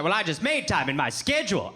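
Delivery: "schedule" with a hard SK start; American SCHEDULE. Acted. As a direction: say "schedule" as SKED-jool. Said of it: "you mean schedule".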